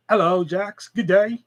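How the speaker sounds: put-on accidental Australian-accented greeting. Attempting Massachusetts but landing on Australian, Australian accent. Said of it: "that's fucking Australian".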